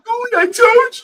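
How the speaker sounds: high gloating "I told you"; mocking gloat. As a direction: gloat like a smug friend. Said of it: "that would be Juice's heyday".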